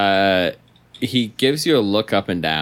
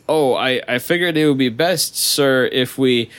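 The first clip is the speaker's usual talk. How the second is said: nervous guard; 7 semitones higher, 4 dB louder than usual. Acted.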